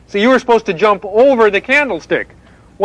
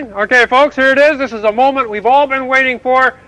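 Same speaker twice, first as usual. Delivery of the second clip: building announcer hype; 4 semitones higher than usual. Acted. Frog reporter hypes viewers before Jack's jump, building to a shout. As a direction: hype the crowd into the big moment.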